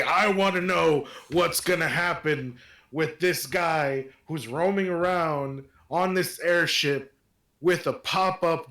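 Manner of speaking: authoritative, demanding white-guy voice; white man voice. Acted. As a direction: play it as an entitled guy threatening to sue. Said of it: "Toma's literally putting on a voice for this, ... his best white, white man voice".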